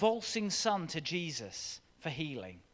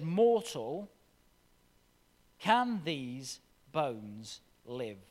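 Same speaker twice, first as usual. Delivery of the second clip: slow, drawn-out question, a little louder; solemn divine question; 3 semitones lower, 3 dB louder, much slower than usual. Acted. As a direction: ask it slowly like God speaking from above. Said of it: "repeated to the listeners".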